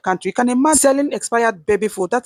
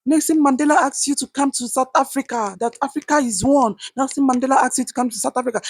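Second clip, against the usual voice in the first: mocking quote; 5 semitones higher than usual. Vlogger mocking foreigners answering South African complaints, higher mocking voice. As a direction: parody the excuse, pitched up. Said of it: "you'll be like".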